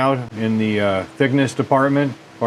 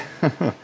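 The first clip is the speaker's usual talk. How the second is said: small laugh at a burp; 5 semitones higher, 5 dB quieter than usual. Real, not acted. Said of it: "I'm burping".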